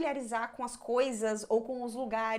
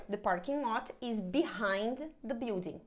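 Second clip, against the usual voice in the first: slow model sentence; slower than usual. Shown as a demonstration. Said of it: "O parking".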